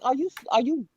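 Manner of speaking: put-on a light New York accent, teasing. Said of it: "in my New York accent".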